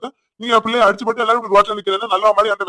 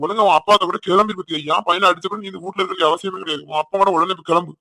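angry scolding; 6 dB louder than usual. Acted. Mother-in-law ordering the daughter-in-law out of the house, shouting angrily. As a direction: tear into her and order her out.

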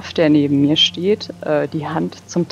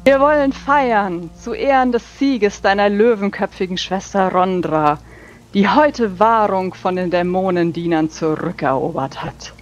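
hammy stage actor; 2 semitones higher than usual. Acted. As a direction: proclaim it with big theatrical sweep. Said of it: "sehr tulamidisch, theatralisch".

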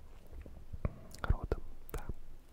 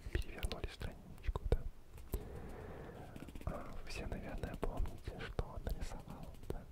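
calm whisper. Acted. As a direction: whisper the story to lull them asleep. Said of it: "таким тихим, тихим, спокойным шепотом".

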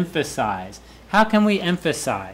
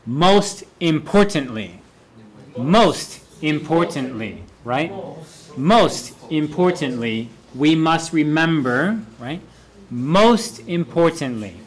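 slow emphatic. Shown as a demonstration. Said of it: "It's very easy".

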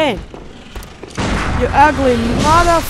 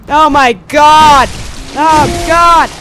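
shocked; 6 dB louder, slower than usual. Real, not acted. Shock at game event.

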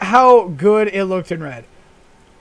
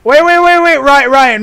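loud, raised, rapid repeats; urgent calling out; 3 semitones higher, 6 dB louder than usual. Real, not acted. Player halting a friend for a thumbnail shot, urgent loud call. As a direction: call urgently to stop someone.

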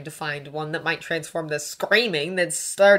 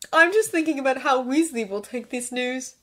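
raised, lightly gleeful voice; cheerful; 8 semitones higher, 4 dB louder than usual. A narrator's reading. Draco anticipating Weasley's reaction, cheerful. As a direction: say it with cheerful mischief. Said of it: "he said cheerfully".

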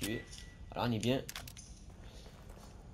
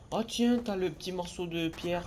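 mock trollish voice; 5 semitones higher than usual. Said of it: "le petit trollolol pour dire".

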